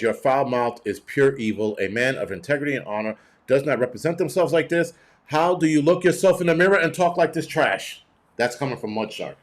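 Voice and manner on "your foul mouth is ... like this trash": hammed-up outrage, louder and higher toward the end; mock indignant reading. Streamer reading a viewer's complaint aloud, mock indignant. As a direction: read it like a scandalized scolding, building. Reads out a scolding viewer message.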